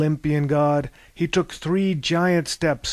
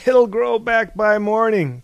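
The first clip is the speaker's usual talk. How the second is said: higher and louder exclaiming; a loud, high toast cry; cried out; 7 semitones higher, 6 dB louder than usual. Acted. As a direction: call it out with gusto. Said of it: "cried Thales".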